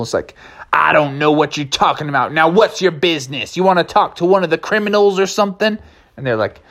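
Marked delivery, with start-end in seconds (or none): 0.7-5.8 cowboy drawl. Acted. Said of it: "You're talking so unusual".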